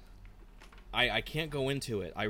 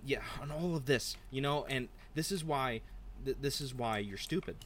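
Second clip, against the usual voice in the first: Jeff Goldblum impersonation; 3 semitones higher than usual. Retold or imitated. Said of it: "started to become a Jeff Goldblum impersonation as it went on".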